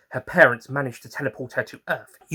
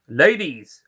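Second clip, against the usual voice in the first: gallant greeting; 4 semitones higher, 7 dB louder than usual. Acted. Doctor greets ladies, tipping hat.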